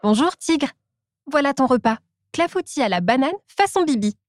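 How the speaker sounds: Monkey's cheerful voice. Acted. Monkey brings lunch.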